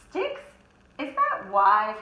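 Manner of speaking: doubtful question. Acted. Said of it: "asked Percy".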